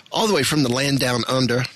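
put-on a half-hearted stab at an Australian accent; lightly put-on Aussie twang; mock Australian lilt, barely there; poor Aussie accent. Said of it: "tried to do a poor Aussie accent".

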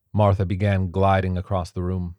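plain reading voice

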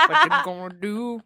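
hillbilly twang, laughing through it; slow rustic drawl. Acted. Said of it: "I say it like a hillbilly".

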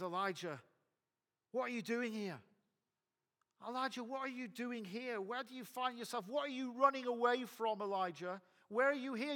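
high-pitched, insistent questioning; God questioning Elijah. Acted. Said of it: "And God asks him a question".

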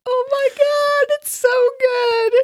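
slow, high, teary gushing. Real, not acted. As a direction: swoon over how good it is. Gushing over the new recording.

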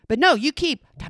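ordinary talk, nothing marked

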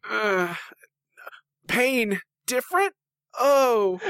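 high, hammed-up outrage; mock shock. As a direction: play it like a scandal. Mock shock at being different.

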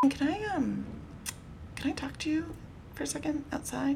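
high, soft mother's request; imitating mom pulling him aside softly; mom asking quietly. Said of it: "my mom's like".

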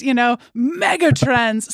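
booming, drawn-out truck commercial voice; monster truck announcer. Shown as a demonstration. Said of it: "one of those sportscasters or, like, those big trucks".

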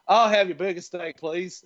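mock Texan ordering from a waiter; lightly hammed-up Texan; Texan accent. Shown as a demonstration. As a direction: put on a Texan drawl. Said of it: "I'll just do Texan".

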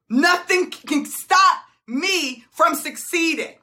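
ordinary talk, nothing marked

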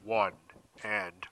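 slow, low ring announcer call; Ricochet entrance call. Retold or imitated. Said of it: "it goes like this".

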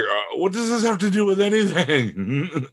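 high, drawn-out incredulous quote; exasperated bafflement. Retold or imitated. Podcaster reacting to the irrelevant plot turn, exasperated and high. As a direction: stretch it out high in comic disbelief.

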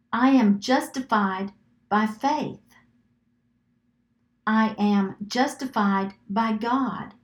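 slow, deliberate affirmations with long pauses; measured, spaced-out decrees; slow declarations. Shown as a demonstration. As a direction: leave room to repeat after each one. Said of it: "say it slow enough".

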